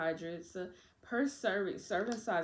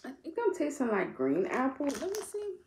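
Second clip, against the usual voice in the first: talking while chewing; chewy candy in mouth; mouth partly full; 7 semitones higher, 3 dB louder than usual. Real, not acted. Seen 3: Jaw moving, cheeks worked from earlier gummy while speaking.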